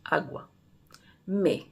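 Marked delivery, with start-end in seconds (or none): 0.0-0.5 "Agua" said the Portuguese way, gwa sound kept. Shown as a demonstration. Teaching the Portuguese word for water, said carefully. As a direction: model "Agua" with a clear gw, as in Portuguese. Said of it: "ça s'écrit A, accent aigu, G U A".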